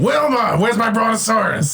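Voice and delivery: high, hollered cartoon caveman impression; Fred Flintstone. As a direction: bellow for the wife like a cartoon caveman. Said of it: "It's not good either, but it's close".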